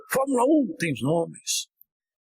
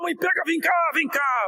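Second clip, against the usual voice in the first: put-on frightened child calling; 9 semitones higher than usual. Scared child calls mother.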